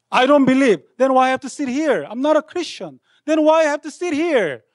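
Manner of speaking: rebellious outburst at church; defiant protest. Retold or imitated. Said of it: "So finally".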